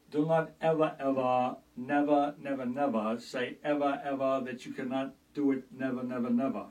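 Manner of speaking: halting oddly stressed cadence; Christopher Walken impression. Eccentric actor lecturing, halting and oddly stressed. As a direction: pause and punch each never. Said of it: "Christopher Walken".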